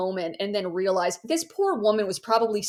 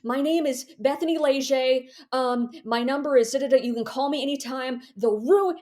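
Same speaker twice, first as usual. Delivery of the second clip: higher, louder, frantic rush; a wild woman's urgent plea, higher and louder; frantic note; 5 semitones higher, 4 dB louder than usual. Retold or imitated. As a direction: read it like a panicked warning scrawl. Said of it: "the ramblings of a wild woman".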